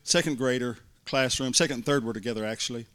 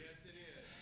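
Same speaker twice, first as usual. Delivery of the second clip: breathy whisper of agreement; whispered aside; 28 dB quieter than usual. Real, not acted. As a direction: hush it to yourself.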